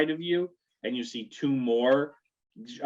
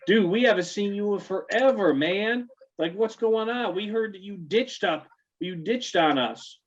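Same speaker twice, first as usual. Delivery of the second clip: high bro voice; 9 semitones higher than usual. Acted. GM voices the bros.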